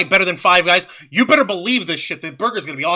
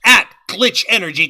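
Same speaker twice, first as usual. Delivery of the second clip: ad read. Acted. Sponsor read.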